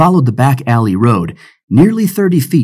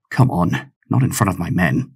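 softer, lower pirate voice; soft plea; 4 semitones lower, 5 dB quieter than usual. Acted. Pirate begging the captain not to shame him, soft plea. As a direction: plead under your breath. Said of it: "he said softly".

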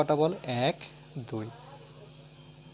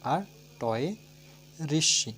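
put-on spelling aloud for children. Shown as a demonstration. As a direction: clear dictation of each letter for pupils. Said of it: "আমার উচ্চারণটা শুনে নাও". (শিশুদের জন্য স্পষ্ট করে বানান বলা)

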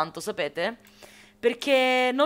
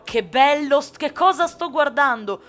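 higher, louder awe at the view; delighted wonder; 5 semitones higher, 5 dB louder than usual. Real, not acted. Streamer amazed at the landscape in her game, delighted wonder. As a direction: gush over the sight.

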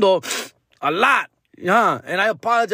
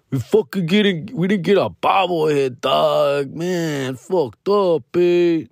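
complaining tipsy fan; drunk guy; slower than usual. Acted. Drunk fan grumbling about the bobblehead, lightly acted drunk. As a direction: drunk man griping, lightly voiced. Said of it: "They were kinda drunk".

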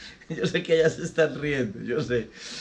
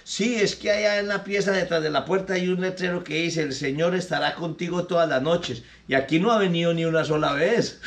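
higher, fed-up maid quitting; indignant maid; 3 semitones higher than usual. Acted. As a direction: announce you're leaving in a high huff. Maid explains complaint.

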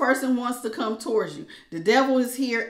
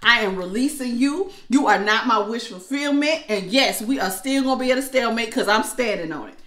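a bit louder, firm refusal; 4 dB louder than usual. Pretend. Aquarius flatly refusing the ex. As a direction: plant your feet and refuse. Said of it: "Aquarius said".

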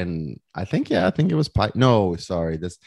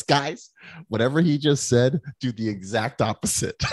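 laughing quote. Retold or imitated. Hunter undercuts the advice, laughing.

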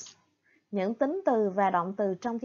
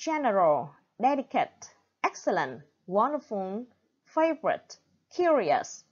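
word list: GEN-eral, DEL-icate, EX-cellent, WON-derful, FA-vorite, CU-rious; first-syllable stress. Shown as a demonstration. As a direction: stress the first syllable of general, delicate, excellent, wonderful, favorite, curious. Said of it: "stressed on the first syllable". (nhấn âm tiết đầu: general, delicate, excellent, wonderful, favorite, curious)

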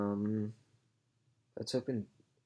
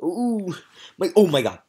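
shocked laughter; 10 semitones higher, 14 dB louder than usual. Real, not acted. Huge legend pull reaction.

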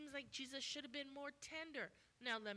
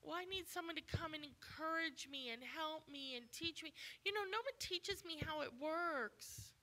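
higher, pleading whine of a churchgoer; mock needy complainer; 6 semitones higher than usual. Preacher mimics a congregant asking for help, lightly whiny. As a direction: act out a member begging to be taught.

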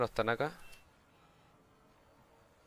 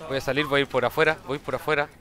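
calling out; 2 semitones higher, 6 dB louder than usual. Real, not acted. Calling out moves in a firefight.

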